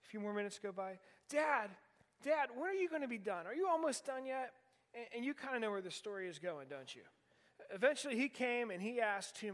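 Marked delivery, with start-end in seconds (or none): 1.3-4.5 lightly voiced child, a bit higher, pleading; a hint of a pestering seven-year-old; impatient little son. The son keeps asking, impatient.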